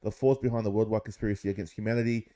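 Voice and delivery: slow, deliberate read-aloud of an article. Acted. To his mates, reading David Icke's theory aloud, slow and deliberate. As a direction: read it out like a text, mildly dramatic.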